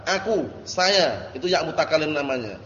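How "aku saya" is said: slow explaining. Shown as a demonstration. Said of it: "Ya mutakallim itu ya".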